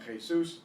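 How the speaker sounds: "Jesus" as kheh-SOOS, stress on the end; Spanish pronunciation. Shown as a demonstration. Teacher modelling the Spanish name, "Jesus" as kheh-SOOS. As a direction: say "Jesus" with throaty J and long stressed "sus". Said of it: "Now, Jesus means Jesus".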